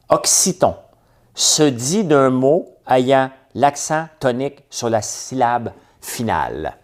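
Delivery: very slow, deliberate dictation; measured game-host reading, easing down at the end; dictionary definition read-out. Acted. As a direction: read it out word by word, pausing between phrases.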